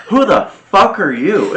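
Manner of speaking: a loud, high, laughing retold yell; mock yell. Telling friends about the neighbor, laughing mock yell.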